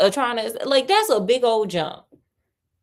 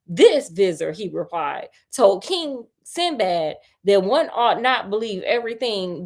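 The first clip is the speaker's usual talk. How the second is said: story narration; 3 semitones higher than usual. A narrator's reading. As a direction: read the tale to a friend, a touch dramatic. Reads the tale aloud.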